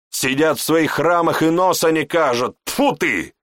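high, loud gossiping commoner; indignant townsman. Acted. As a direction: rant about the dark priests. Townsman rants about the priests. (возмущённый горожанин, высоко и громко)

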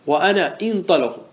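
"انطلق" as intaliq, hamza with kasra; Tamimi kasra prefix. Shown as a demonstration. Teacher to class, Tamimi kasra demo. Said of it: "أن تكسر حرف المضارعة".

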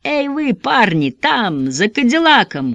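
slow, high call across the street. A narrator's reading. Gunman calls out to the men behind the Cadillac, high. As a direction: hail them from cover. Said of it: "крикнул Блейлоком леденец Кит".

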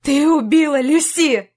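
angry shout. Acted. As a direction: hurl the blame at her. Jack accuses Mia, shouting. (гневный крик)

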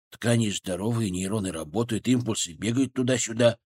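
muffled, as if from underwater. Acted. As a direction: talk like you're under water. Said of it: "Голос бурундука звучал приглушённо".

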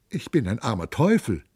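whining. Acted. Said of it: "jammerte Gymnastes".

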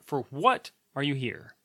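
slow, with "what" held and set apart; stress on WHAT. Shown as a demonstration. Vlogger proving the point to viewers, slow stress on "what". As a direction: stretch "what", then pause before "are you here". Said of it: "It puts emphasis on the".

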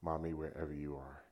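a faint, spent forgiveness; very little force. Retold or imitated. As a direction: let the words fall out with almost no force. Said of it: "with very little force".

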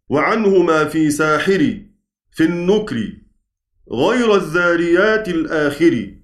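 slow, measured chant of the verses; poem recitation. Acted. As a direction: recite the verses slowly, line by line. (إنشاد متأنٍ لأبيات المنظومة)

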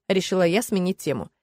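usual speaking voice

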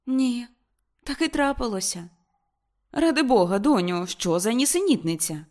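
high, loud dismay; mother cries out in disbelief; exclaiming. Acted. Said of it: "вигукнула місіс Морс". (мати вигукує, високо й голосно)

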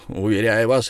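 usual speaking voice

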